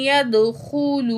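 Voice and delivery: यदखुलू with the द doubled and no stop on the न; slow, correct यदखुलू; correct recitation. Shown as a demonstration. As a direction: recite यदखुलू slowly with the shadda. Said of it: "आपने अन यदखुलू पढ़ना है".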